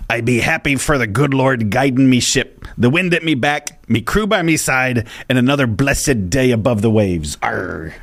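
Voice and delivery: put-on light pirate accent, mild Mister Krabs; a hint of a pirate captain. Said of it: "your best Mister Krabs impersonation".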